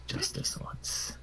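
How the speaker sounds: slow, whispered concession; soft and grudging, barely voiced; under the breath. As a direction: whisper it to yourself, drawn out. Same words, first under breath.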